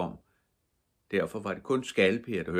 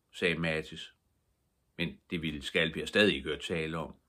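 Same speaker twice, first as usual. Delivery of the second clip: plain reading voice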